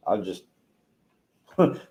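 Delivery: moved and catching breath; emotional, a little breathless; choked up. Real, not acted. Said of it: "Let me catch my breath".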